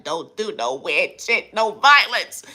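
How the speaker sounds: hammed-up high scolding voice; mock high-pitched rant. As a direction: climb into a high cartoon voice. Ranting in put-on voice.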